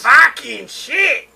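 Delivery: slow, high goofy buffoon voice; lightly voiced buffoon. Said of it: "I can't do 'em 'cause of my voice".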